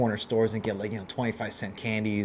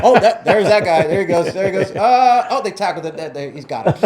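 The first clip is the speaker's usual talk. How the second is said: much higher and louder, laughing while calling the chase; excited play-by-play; 8 semitones higher, 9 dB louder than usual. Retold or imitated. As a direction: call the tackle like a thrilled spectator, laughing. Retelling friends watching police tackle.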